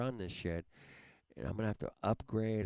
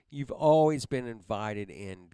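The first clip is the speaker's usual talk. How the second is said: real anger, voice raised and louder; louder, fed-up retort; angry shout; 7 dB louder than usual. Real, not acted. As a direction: yell it at him in real frustration. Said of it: "I'm fucking pissed".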